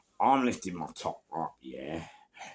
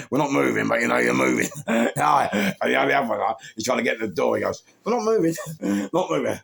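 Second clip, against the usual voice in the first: laughing mock panic; 5 semitones higher, 6 dB louder, faster than usual. Quoting panicked cops.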